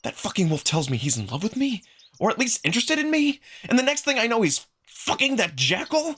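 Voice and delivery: betrayed narrator ranting, high and heated; indignant rant. Acted. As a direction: vent the betrayal, climbing in pitch. Hurt rant about Amicus.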